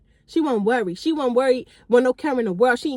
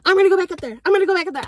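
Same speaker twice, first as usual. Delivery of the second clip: put-on drunk friend; 6 semitones higher, faster than usual. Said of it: "Then she like".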